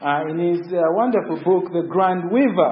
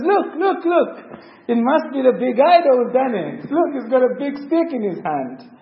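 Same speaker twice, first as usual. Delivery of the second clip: higher-pitched, urgent mock discovery; feigned alarm; 5 semitones higher than usual. Son pretending to show his father the culprit, feigned alarm. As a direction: act out pretended surprise, pitch lifted. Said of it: "pretending, he runs in the room".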